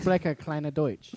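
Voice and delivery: slow, careful German words; German accent. Shown as a demonstration. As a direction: show off a bit of school German. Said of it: "Yeah, I took German".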